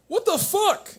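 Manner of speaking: high-pitched shocked outburst; stunned what-the-hell squeak. Retold or imitated. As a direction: jump way up in disbelief. Shocked reaction to news video.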